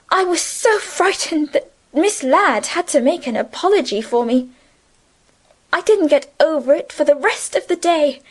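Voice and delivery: a hint of a timid young girl; gentle schoolgirl. A narrator's reading. Cecilia recounts her stage fright.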